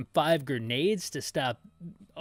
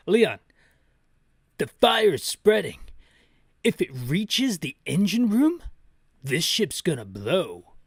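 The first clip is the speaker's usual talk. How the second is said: urgent warning; 2 semitones higher, 5 dB louder than usual. Acted. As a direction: shout the danger over the fire. Reading Barry's urgent warning.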